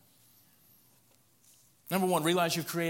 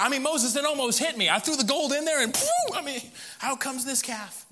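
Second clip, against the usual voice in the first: higher, louder, wide-eyed story; innocent-acting Aaron; 8 semitones higher, 5 dB louder than usual. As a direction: play dumb with amazement.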